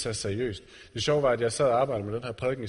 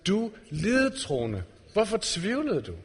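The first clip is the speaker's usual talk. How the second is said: langsomt og blidt, lidt højere i tonen; med omsorg og kærlighed; 5 semitones higher, slower than usual. Retold or imitated. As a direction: en kærlig irettesættelse, meget langsomt. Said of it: "sagt med den allerstørste omsorg og, og kærlighed". (Jesus siger det kærligt til Peter, som han løfter op)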